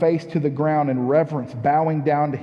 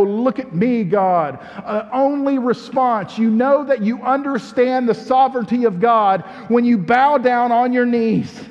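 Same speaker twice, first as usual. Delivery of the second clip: fiery preaching; 3 semitones higher than usual. Acted. Pastor urging the church to bow down, fervent preaching. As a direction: preach it like a revival. Preaching builds to full force.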